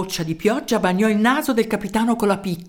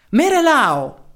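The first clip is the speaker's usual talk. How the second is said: Merelao called out louder and higher; booming voice; 4 semitones higher, 4 dB louder, slower than usual. Acted. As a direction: boom the mayor's name across the square. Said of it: "disse Dragone con voce tonante".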